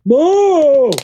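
high, drawn-out cartoon cry; cartoon character impression. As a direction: wail it out in a goofy high voice. Attempts Ed, Edd n Eddy voice.

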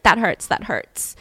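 put-on slow whiny kid voice; a child protesting the itchy shirt; little boy's complaint. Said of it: "he was like".

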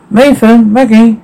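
high searching call. Acted. Calling out while searching.

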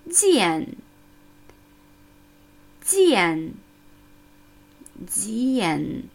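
"Jian" with a fleeting vowel i gliding in; "Jian" with a quick smooth i before the a; over enunciating. Shown as a demonstration. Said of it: "Ein fließender Vokal I".

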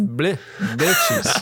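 French vowel on "bleu", said with relish; French pronunciation. Shown as a demonstration. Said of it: "'Cause it's French".

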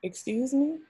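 a high, offended "excuse me" thrown back; indignant excuse me. Retold or imitated. To husband asking why she didn't cook, high and indignant. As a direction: act insulted by the question.

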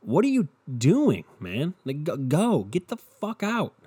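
high, impatient get-out plea; exasperated shove-off. Real, not acted. Urging people to leave.

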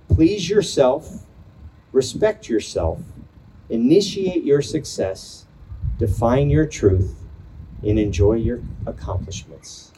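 slow, measured poetry recital; pausing between short poetic lines; poem reading. Acted. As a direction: read each phrase like a line of verse. Reads a student's poem aloud.

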